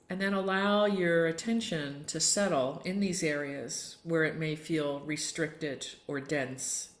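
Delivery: unhurried yoga nidra guidance with long pauses; guided meditation. Real, not acted. Yoga teacher settling the group for tonight's Yoga Nidra, calm meditation voice. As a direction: gently lead them into stillness, phrase by phrase.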